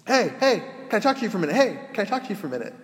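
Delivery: high, loud calling out to get attention; calling out loudly. Retold or imitated. Homeless man calls to the priest, loud and high. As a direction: hail the priest across the lot, loud and high. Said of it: "this man shouting at me".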